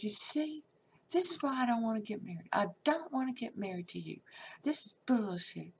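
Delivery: high, fast, fed-up telling-off; angry rant. Retold or imitated. Bride scolding hungover groom, fast angry rant. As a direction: let him have it, fast and sharp. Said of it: "I was so angry".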